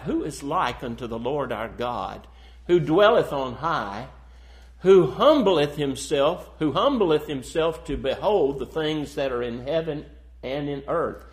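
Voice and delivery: proclaimed psalm with weighty repetition; scripture recitation. Real, not acted. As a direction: recite the verse out to a congregation. Recites a psalm while preaching.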